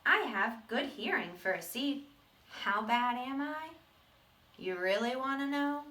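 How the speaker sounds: a gruff little seed telling his own story; bad seed voice. Teacher reading to the class as the seed, gruff and proud.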